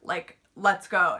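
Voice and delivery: loud, emphatic reenacted cheer; retold excitement. Reader cheering on the reset button, retold excitement. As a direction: replay a triumphant reaction, punching it out loudly.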